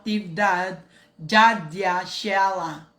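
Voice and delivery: slow, drawn-out name call; announcing name. Acted. Host greeting a foreign viewer, slow name call.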